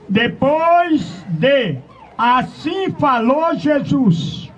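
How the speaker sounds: slow, shouted Bible reading to the congregation; preacher proclaims the verse slowly, full force; scripture reading. Acted. Preacher reads the gospel to his flock, slow proclaiming shout.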